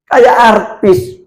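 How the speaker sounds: put-on slow, drawn-out careless young husband; young man's remark. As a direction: lightly play the husband, slowly. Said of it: "pemudanya bilang".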